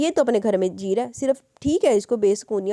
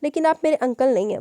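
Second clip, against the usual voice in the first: put-on innocent child; 5 semitones higher, 4 dB louder than usual. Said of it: "मासूमियत से बोला".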